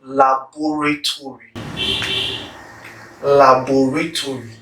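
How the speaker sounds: "Laboratory" with every syllable sounded, five in all; careful full articulation. Shown as a demonstration. Speaker showing viewers a word often got wrong, carefully articulated. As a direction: say "Laboratory" fully, keeping the "to" before "ry". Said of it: "get each of those syllables correct".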